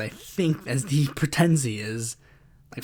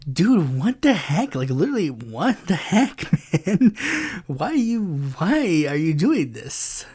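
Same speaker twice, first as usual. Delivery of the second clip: exasperated. Real, not acted. Exasperated at hostile DMs.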